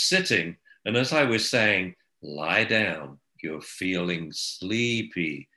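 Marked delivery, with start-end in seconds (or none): 2.2-5.5 soothing hypnotic. Retold or imitated. Soothing puppy, hypnotic joke.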